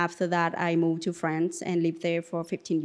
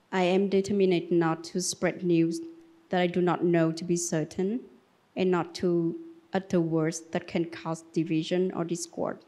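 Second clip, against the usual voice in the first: reading a vow aloud, steady and even; formal recitation. Acted. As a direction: recite the training text like a solemn pledge. Recites the mindfulness training text.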